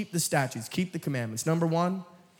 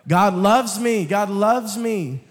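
mock smug believer; 4 semitones higher, 5 dB louder, slower than usual. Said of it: "people who love the grace side".

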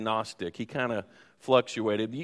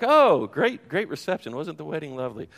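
mock cheerful; 3 semitones higher, 3 dB louder than usual. Mock happy pose after argument.

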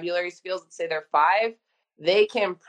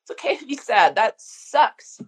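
gentle reassuring parent; 2 semitones higher than usual. Shown as a demonstration. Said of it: "Be like".

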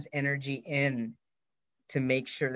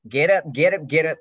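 insistent yelling; 3 semitones higher, 9 dB louder than usual. Retold or imitated. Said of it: "So he just like".

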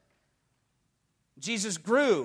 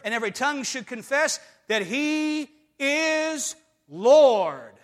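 building to a shout; 3 semitones higher, slower than usual. Acted. Preacher building to a climax.

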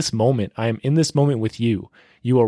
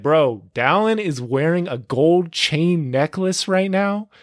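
hyped universe voice; 6 semitones higher than usual. Retold or imitated. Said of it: "the universe is like".

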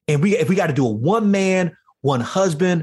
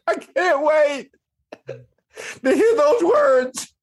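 slow, high, crying voice; drawn out through tears; tearful; 5 semitones higher, much slower than usual. Real, not acted. Guest awaiting God's words, slow and tearful. Weeping anticipation.

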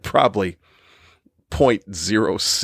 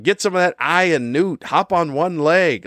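mocking witchy remedy; 7 semitones higher than usual. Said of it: "It's like".

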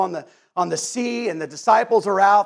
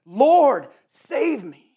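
mild imitated cry; 4 semitones higher, much slower than usual. Sinking Peter prays to Jesus, mild imitated cry. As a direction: act out a brief cry for rescue, held back. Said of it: "he cries out".

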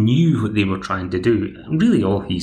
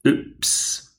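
a quick whispered oops; 4 dB quieter than usual. Real, not acted. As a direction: breathe it out as a sheepish aside. Whispered aside after a blunder.

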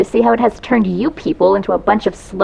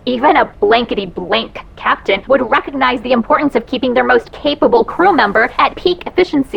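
muffled by mask. Acted. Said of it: "can't understand you with that mask on".

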